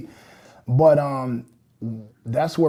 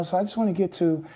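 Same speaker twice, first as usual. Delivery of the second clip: a touch of MJ voice; 2 semitones higher, 3 dB quieter, faster than usual. Retold or imitated. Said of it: "there I go making that voice".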